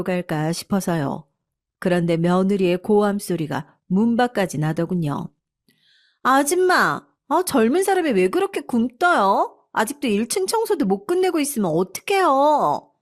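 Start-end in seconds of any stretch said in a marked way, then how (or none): 6.2-12.9 put-on higher, contemptuous young wife scolding the maid; spoiled daughter-in-law berating the housekeeper; rude daughter-in-law. A narrator's reading. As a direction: talk down to the help, impatient.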